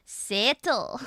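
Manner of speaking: "Settle" with a Scottish eh. Shown as a demonstration. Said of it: "Which turns settle into settle".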